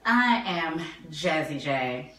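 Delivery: bored, dragged-out self-introduction; deadpan drawl. Acted. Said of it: "why you always gotta make a face".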